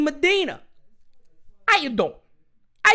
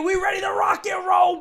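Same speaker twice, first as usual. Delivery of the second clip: hype shout; 6 semitones higher than usual. Real, not acted. Pumped opening hype.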